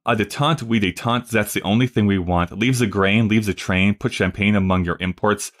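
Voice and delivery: put-on light French accent, zat for that, spoken rhythmically like the lyric. French admiral pushing détente, in a lightly put-on French accent. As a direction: recite the French admiral's verse with a hint of French accent. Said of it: "The French admiral is going".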